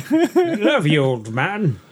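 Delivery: silly high voice. Pretend. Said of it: "repeats it in put-on voice".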